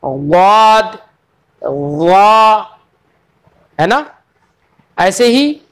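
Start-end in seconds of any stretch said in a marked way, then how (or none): 0.0-2.8 गौद and वा recited as letter names. Shown as a demonstration. Teacher lists the heavy letters for students. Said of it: "कौन कौन से हरूफ हैं".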